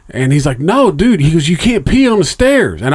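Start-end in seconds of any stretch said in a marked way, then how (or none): 0.6-1.2 mock alarm. Friend stopping him on the stairs. 1.5-2.8 mock alarm. Friend stopping him on the stairs.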